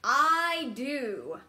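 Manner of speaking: excited shout. Acted. Child jumping in puddle.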